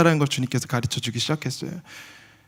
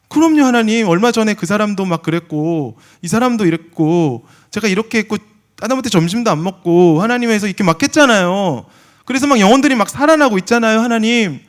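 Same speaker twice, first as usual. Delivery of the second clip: boasting to God; 6 semitones higher, 6 dB louder than usual. Retold or imitated.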